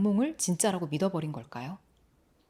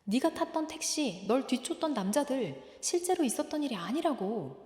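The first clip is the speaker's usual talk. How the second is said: higher, softened echo of earlier words; remembered voice; 4 semitones higher, 4 dB quieter than usual. Acted. Brother's words coming back to the boy, a soft remembered echo. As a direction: replay the words softly, like a memory. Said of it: "했던 말이 떠오릅니다".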